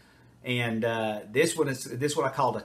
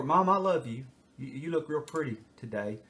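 mock sweet-talking kid. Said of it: "anything to deflect".

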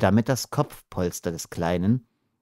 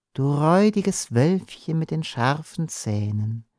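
gentle sing-song lilt; rocking voice; 4 semitones higher than usual. Acted. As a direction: rock him with the words. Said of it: "mit wiegender Stimme".

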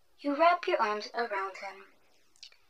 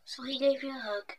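ASMR story narration. Acted. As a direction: lull the listener into the bedtime tale.

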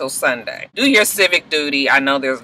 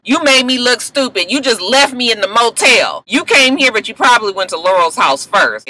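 Bonnie chewing out Frank, heated mock scolding; angry Bonnie; 3 semitones higher than usual. Bonnie scolding Frank, acted quarrel.

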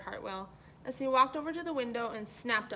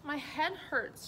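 slow, dragging complaint of a headache; moaning; 5 semitones higher, slower than usual. Acted. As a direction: let it drag out like a miserable moan. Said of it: "she moaned".

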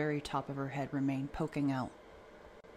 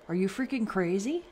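furious yell at his wife; 6 semitones higher, 6 dB louder than usual. A narrator's reading. Father yelling at the mother, angry shout. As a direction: shout it, full of rage. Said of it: "yelled her father".

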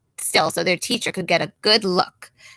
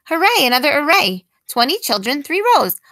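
cheering; 4 semitones higher, 4 dB louder than usual. Acted. Teacher cheering new array.

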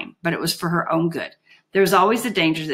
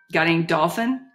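sarcastic. Acted. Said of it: "Holly asked sarcastically".

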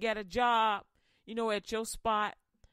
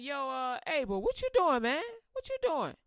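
mock-friendly Cain; 3 semitones higher than usual. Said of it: "He like".

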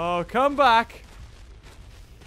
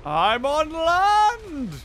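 slow, drawn-out, higher call of triumph; triumphant; 5 semitones higher, much slower than usual. Real, not acted. Gamer's dino finally reaches the shore, triumphant. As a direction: savour the arrival.

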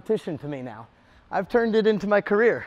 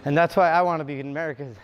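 panting mid-sentence, words cut short; gasping for air after a workout; out of breath; 3 semitones lower, faster than usual. Real, not acted. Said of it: "I'm out of breath".

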